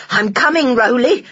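high, loud call across water. Acted. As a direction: call out to the boy. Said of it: "she called".

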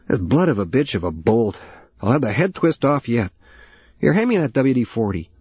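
put-on an older man swearing under a truck hood; gruff old father. Father cursing at a stuck bolt.

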